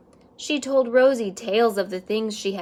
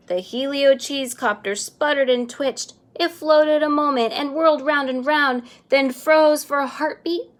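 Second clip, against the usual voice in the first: louder and higher as it whirls; building excitement; 5 semitones higher, 6 dB louder than usual. A narrator's reading. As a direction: build the tension up to the freeze. Copter rises, suspense builds.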